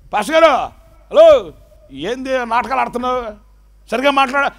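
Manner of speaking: high, loud pleading; alarmed wife. Retold or imitated. Wife begging her mute husband, high and pleading. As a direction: beg him to speak properly.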